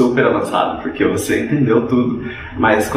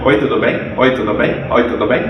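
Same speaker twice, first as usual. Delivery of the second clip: fast but choppy. Retold or imitated. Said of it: "Mesmo que ele fale rápido".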